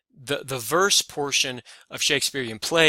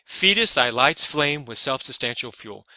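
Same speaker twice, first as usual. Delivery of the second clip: FEED-est stressed on its first syllable, then LIGHT'S and FLAME; irregular scansion. Shown as a demonstration. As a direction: open hard on "Feedest", breaking the iambic beat. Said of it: "Stressed, unstressed".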